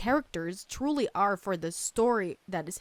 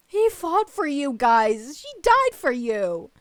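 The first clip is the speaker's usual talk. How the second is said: real indignant anger; 3 semitones higher, 7 dB louder than usual. Real, not acted. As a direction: insist on what they gave, angrily. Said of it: "angry for her".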